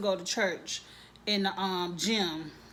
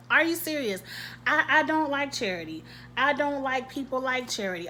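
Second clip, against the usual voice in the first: higher and louder, fed up; exasperated high outburst; 4 semitones higher than usual. Real, not acted. Ranting at the TV about Charity, exasperated and loud. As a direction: throw up your hands at her nerve. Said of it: "repeat, second louder".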